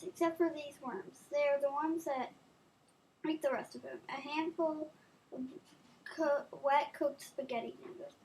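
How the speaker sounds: soft, hushed creepy storytelling; spooky storytelling. Acted. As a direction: lure the circle into dread. Reads spooky game poem.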